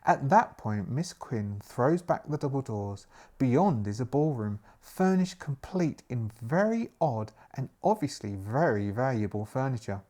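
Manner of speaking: measured, clearly projected story reading; gamebook narration. A narrator's reading. Host reads the adventure aloud to listeners, storytelling. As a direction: narrate with emphatic phrasing.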